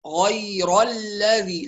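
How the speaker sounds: slow "غير الذي" with thin doubled "ل" after heavy "ر"; light laam. Shown as a demonstration. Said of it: "على ترقيق اللام". ("غير الذي" بترقيق اللام)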